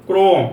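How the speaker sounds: ক্রম as "krom", rounded o, falling; teacher's firm answer ক্রম with o; o-sound demo. Shown as a demonstration. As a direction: press the o in ক্রম. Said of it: "ও হয়ে গেছে".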